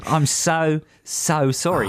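apologetic put-on Aussie accent; hammed-up Australian apology; mock Australian accent. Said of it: "read this out in the correct accent".

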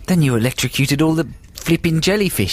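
badly faked Aussie accent; mock Australian accent. Host tells Australian friend his day, mock Australian accent. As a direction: play a chatty Aussie mate. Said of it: "they're very poor Australian accents".

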